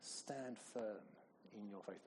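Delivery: hushed whisper, stand firm. Shown as a demonstration. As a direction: breathe it quietly as encouragement. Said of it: "Doesn't even sound like they're attacking".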